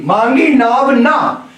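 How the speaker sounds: मांगी नाव ना drawn out slowly, the break after ना; pause after ना. Shown as a demonstration. Teacher explaining the boat was not asked for, slow demonstration. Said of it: "ना के बाद इस विराम चिन्ह का प्रयोग किया".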